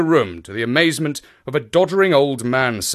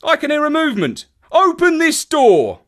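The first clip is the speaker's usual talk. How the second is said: urgent shout; 5 dB louder than usual. A narrator's reading. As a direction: shout the order through the door. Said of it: "cried Lestrade".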